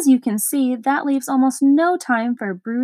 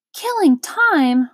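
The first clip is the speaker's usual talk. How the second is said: slow, higher, louder outraged question; furious roar; 4 semitones higher, 4 dB louder, slower than usual. Acted. Watchdog outraged that Milo kills time, furious. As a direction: hurl the words back in outrage. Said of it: "roared the dog so furiously".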